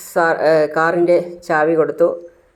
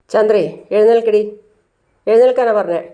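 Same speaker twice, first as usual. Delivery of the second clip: angry order; 5 semitones higher than usual. Acted. Father ordering wife Chandra to get up, angry shout. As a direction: order her up, fed up.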